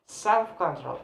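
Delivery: self-control, self strongest, control falling; stress on self. Shown as a demonstration. Teacher repeating the compound for learners, stress on self. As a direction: lean on self, drop off on control. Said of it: "So self have a stress".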